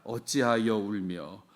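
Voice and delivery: 어찌하여 울며 stretched slowly, each syllable long; slow the whole phrase right down to show its length; drawn out. Shown as a demonstration. Preacher shows how long the formal question sounds, drawn out. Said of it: "짧은 말을 두고 길게 얘기합니다".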